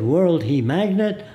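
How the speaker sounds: put-on slow, amazed Arab-accented question; slow Arab-accented English; imitating Arab accent. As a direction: mimic the shopkeeper's Arab-accented wonder. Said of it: "I'm imitating his voice".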